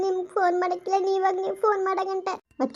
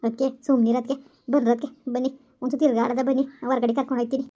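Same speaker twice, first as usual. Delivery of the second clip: lower, firm motherly comfort, a bit faster; consoling mother-in-law; 5 semitones lower than usual. Acted. Mother-in-law hushing her crying pregnant daughter-in-law, lower comforting voice. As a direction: talk her out of crying like an older woman.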